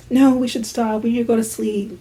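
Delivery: hushed imitation of someone resisting; mimicked half-hearted protest. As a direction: recite the overheard protest softly, in a singsong. Mimicking overheard muffled protest.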